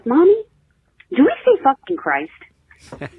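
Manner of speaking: put-on a touch of a young daughter; innocent kid voice. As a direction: ask sweetly like a little girl. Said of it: "she looks at me and goes".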